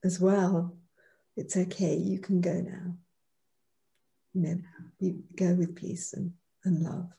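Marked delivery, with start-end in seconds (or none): 1.4-7.1 a touch of soft, tender reassurance; gentle farewell. Retold or imitated. Son at dying father's side, softly telling him to go. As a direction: quietly release him with peace and love. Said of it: "and I said to him".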